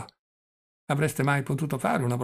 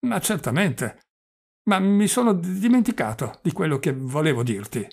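put-on higher, louder, stammering old prince; doddering old prince; 5 semitones higher, 5 dB louder than usual. Old prince complaining to his nephew about his relatives, higher and louder. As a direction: play the flustered old prince, pitched up.

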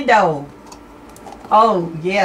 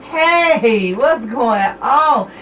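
excited greeting; 3 semitones higher, much slower than usual. Real, not acted. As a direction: sing out the hello again, slowly. Repeats greeting, drawn out.

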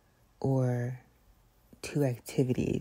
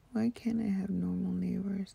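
whisper; 4 semitones higher than usual. Real, not acted. Complaining about neighbors.

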